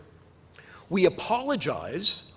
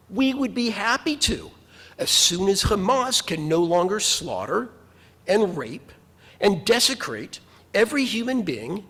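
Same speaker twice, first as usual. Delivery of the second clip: sarcastic retort. Retold or imitated. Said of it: "The problem is that sarcasm".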